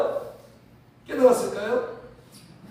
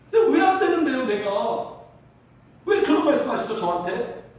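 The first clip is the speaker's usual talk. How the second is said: acted-out aggrieved questioning; hurt protest. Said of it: "인정도 안 되고 서운한 거예요". (서운해서 따지듯이)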